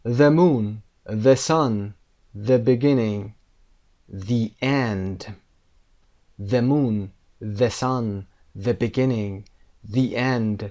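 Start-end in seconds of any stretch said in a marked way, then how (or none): 4.3-5.2 THE pronounced "thee" before END; THE said as dee. Shown as a demonstration. Teacher models THE before a vowel, THE said as "thee". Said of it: "صدای دی داریم اینجا". 9.9-10.6 THE with a long ee before END; THE said as dee. Shown as a demonstration. Teacher repeats the example, THE said as "thee". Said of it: "صدای دی داریم اینجا".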